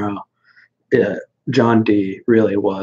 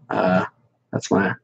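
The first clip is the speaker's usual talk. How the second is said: ordinary talk, nothing marked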